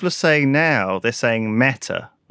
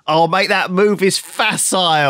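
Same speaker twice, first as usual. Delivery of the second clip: chavvy chess player; 5 semitones higher than usual. Pretend. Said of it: "you sound like a chavvy chess player".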